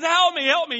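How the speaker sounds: very high, loud panicked yell; screaming for help. Acted. Man in the lion's cage to onlookers, screaming. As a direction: holler for rescue at the top of your voice. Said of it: "he's screaming all the louder".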